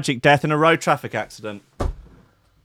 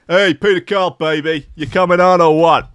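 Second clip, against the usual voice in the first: a hint of a brash wiseguy, higher; lightly voiced cocky guy calling out; hustler impression; 4 semitones higher, 4 dB louder than usual. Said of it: "that's how he talks".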